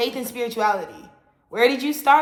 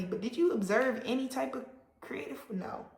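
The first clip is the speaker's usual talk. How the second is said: whispered jab; 7 dB quieter than usual. Real, not acted. Rhetorical jab at godless people.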